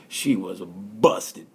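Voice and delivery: slow, hushed whisper of gossip. Real, not acted. Confidential gossip about umbrella girl.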